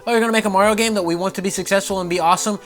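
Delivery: high mocking sarcasm; mock sarcastic boss. Miyamoto mocking the developers, sarcastic. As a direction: sneer out the limits. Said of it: "You're like".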